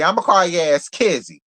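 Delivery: ordinary delivery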